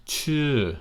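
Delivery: Chu high then falling. Shown as a demonstration. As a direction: lift Chu and let it fall. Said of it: "falling tone".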